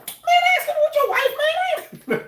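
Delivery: very high, slow cartoonish squeak; squeaky falsetto reply. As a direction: answer in a comic panicked falsetto. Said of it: "you know how you be like".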